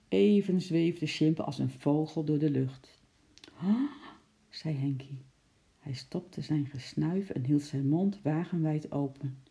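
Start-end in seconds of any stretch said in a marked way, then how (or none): 3.6-3.9 high, breathy awed gasp. A narrator's reading. Henkie watching the monkey leap, gasping. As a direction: gasp in suspense.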